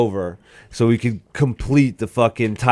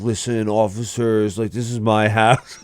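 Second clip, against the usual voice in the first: mock-earnest appeal at normal volume; understated imitation of a serious drunk. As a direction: address the officers in dead earnest. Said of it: "like, so serious".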